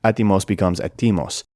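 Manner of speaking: "Etimos" stressed on the first syllable, then "etimos" stressed on the second; stress shift. Shown as a demonstration. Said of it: "moved the stress accent from the first syllable to the second".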